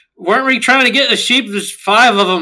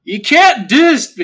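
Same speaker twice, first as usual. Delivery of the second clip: yelling; 3 semitones higher, 3 dB louder, slower than usual. Acted. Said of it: "Kara starts just yelling".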